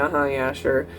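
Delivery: annoyed. Retold or imitated. Imitating the date greeting the teller at the coffee shop, annoyed. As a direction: give a dismissive, annoyed reply. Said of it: "Seems so annoyed".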